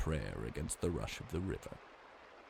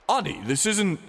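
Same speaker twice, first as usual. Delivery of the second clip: trying to calm; 12 semitones higher, 9 dB louder than usual. Acted. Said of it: "Kyne tried".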